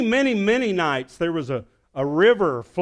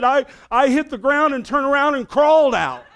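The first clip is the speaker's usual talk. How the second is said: high, loud and laughing; laughing confession; 11 semitones higher, 7 dB louder than usual. Retold or imitated. Youth pastor confessing his escape, laughing. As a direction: admit it through a laugh. Brother-in-law admits crawling out.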